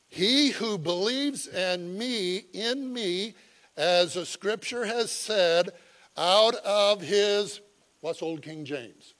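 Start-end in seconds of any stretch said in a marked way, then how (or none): 0.1-7.6 slow, deliberate raised preaching voice; loud proclamation. Retold or imitated. Preacher voicing Jesus to the feast crowd, loud proclamation. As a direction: proclaim it phrase by phrase, slowly. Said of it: "doing it with a loud voice".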